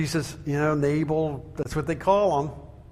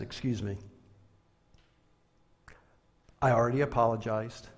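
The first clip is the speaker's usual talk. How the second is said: contained temper; 2 semitones lower than usual. Retold or imitated. Preacher retelling his reply to a lecturing customer, contained temper. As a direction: hold the temper down, with long pauses. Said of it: "this is where my temper kicked in".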